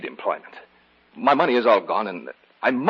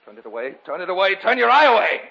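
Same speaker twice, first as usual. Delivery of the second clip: building hysteria; 10 semitones higher, 6 dB louder than usual. Acted. David begging the old man to turn his eye away. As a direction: repeat it, more desperate each time.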